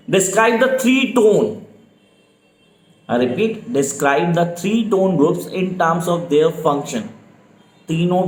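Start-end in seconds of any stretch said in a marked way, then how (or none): 0.1-1.7 very slow, each word spelled out for note-taking; slow dictation. Shown as a demonstration. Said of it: "speed definitely slow है मेरी". 3.7-7.1 very slow, each word spelled out for note-taking; slow dictation. Shown as a demonstration. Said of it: "speed definitely slow है मेरी".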